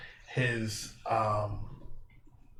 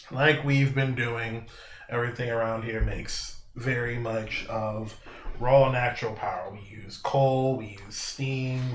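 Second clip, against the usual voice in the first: slow, measured in-character speech; lecturing game character; slower than usual. Acted. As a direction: explain the problem deliberately, pausing between phrases. Game master voices character's speech.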